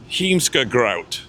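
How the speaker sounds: Heemskerkraat said slowly, with a falling end; deliberate, drawn-out Heemskerkraat; careful pronunciation. Shown as a demonstration. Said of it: "That's how you pronounce it".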